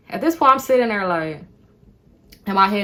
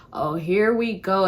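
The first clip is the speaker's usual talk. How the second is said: slow, mildly fed-up sigh of words; slightly drawn-out, resigned reaction; mild weariness; 3 dB quieter, slower than usual. Retold or imitated. First weary reaction to him.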